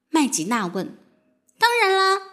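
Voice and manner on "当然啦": higher-pitched, sincere assurance. A narrator's reading. Fairy assures her new friend they are friends, sincerely. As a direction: reassure a friend sincerely, voice lifted. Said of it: "辛宝莲娜真诚地说".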